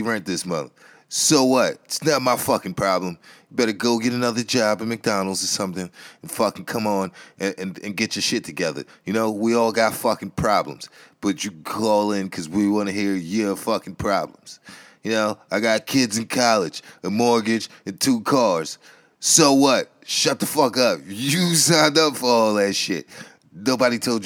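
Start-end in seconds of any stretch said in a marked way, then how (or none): 1.1-3.2 loud scoff. Acted. Ranting host dismissing a caller. 19.2-23.1 loud scornful "so what"; loud dismissive yell. Acted. Ranting host dismissing a caller.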